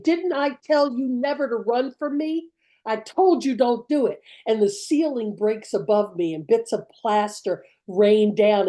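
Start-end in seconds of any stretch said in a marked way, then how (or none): 0.0-4.2 raised-pitch rebuke, not shouted; angry scolding. Acted. Man whipping a runaway girl, acted scolding. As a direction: scold a child as the man punishing her. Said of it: "he's whipping her, and he's saying".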